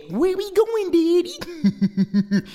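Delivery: put-on high excited kid voice; high baby hawk voice; eager little chick. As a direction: ask Daddy eagerly. Baby hawk asks father.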